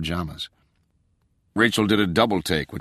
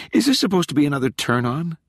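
exasperated; 9 semitones higher, 3 dB louder, faster than usual. A narrator's reading. Rachel exasperated.

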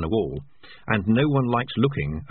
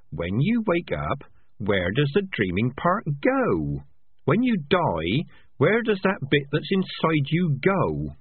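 slow questioning rat voice, lightly higher; slow wondering rat; 6 semitones higher, slower than usual. Acted. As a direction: ask it slowly, really wanting to know. Rat asks where soul goes.

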